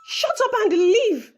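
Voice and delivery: loud, curt dismissal; harsh order. Acted. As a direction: cut her off coldly. Madam dismisses maid.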